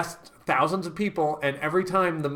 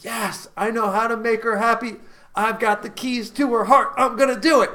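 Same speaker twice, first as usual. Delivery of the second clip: mock triumphant man; 4 semitones higher, 4 dB louder than usual. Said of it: "a man's gonna be like".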